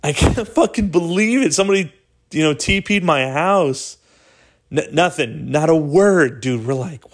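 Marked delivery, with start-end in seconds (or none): 0.0-4.0 high, mock-indignant complaint; imagined outraged girl. Imagined girl complaining about her TP'd house, mock-indignant. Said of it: "hoping she would say".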